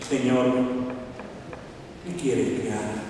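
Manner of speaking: low, hushed question with pauses; fearful, humbled. A narrator's reading. Saulo trembling before the Lord, low hushed submission. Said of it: "Saulo temblando y temeroso dijo".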